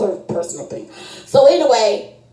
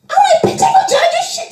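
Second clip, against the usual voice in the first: excited reassurance; 3 dB louder than usual. Retold or imitated.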